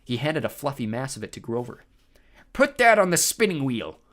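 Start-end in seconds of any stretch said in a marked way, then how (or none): 2.5-4.0 high, booming giant boast; proud monster voice; proud cyclops. A narrator's reading. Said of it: "he said proudly".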